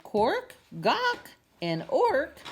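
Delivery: very high, loud squawks; penguin cries. Acted. Penguin crying out while carried from the shop. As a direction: squawk like an excited bird. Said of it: "amid cries of".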